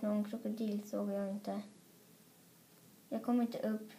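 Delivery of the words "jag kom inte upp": whining. Acted. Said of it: "tjöt storebror".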